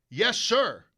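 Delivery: high, loud British announcer call; imitating British accent. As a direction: mimic Ben Wright's British "Yes, sir". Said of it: "with his awesome accent".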